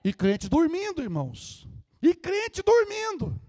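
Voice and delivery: high, loud preaching bursts; preaching exhortation. Real, not acted. Preacher rebukes sleeping believers, loud exhortation. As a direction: preach it out loud, lifting the pitch.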